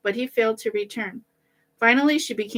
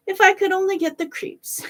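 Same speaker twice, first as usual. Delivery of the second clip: much higher, sing-song wish; musing to himself; 11 semitones higher, 3 dB louder than usual. A narrator's reading. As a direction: dreamily repeat a wish. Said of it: "kept saying to himself".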